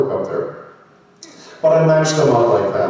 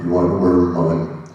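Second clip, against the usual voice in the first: Sean Connery; 4 semitones lower than usual. Acted. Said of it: "Sean Connery".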